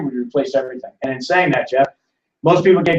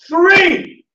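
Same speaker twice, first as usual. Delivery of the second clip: high, loud drawn-out disbelief; loud, high incredulous exclamation; incredulous outburst; 12 semitones higher, 5 dB louder than usual. Acted. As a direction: cry it out in disbelief, stretched long. Incredulous at a three percent return.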